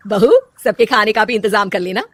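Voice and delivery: a hint of an older woman giving orders; bossy mother-in-law. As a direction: play the demanding saas calling for sherbet. Mother-in-law gives more orders.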